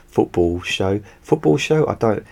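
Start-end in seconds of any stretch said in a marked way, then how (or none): 0.0-1.0 chuckling through the slip; laughing. Real, not acted. 1.2-1.9 high, louder amused question; baffled by your own words; incredulous. Real, not acted. Disbelief at own slip.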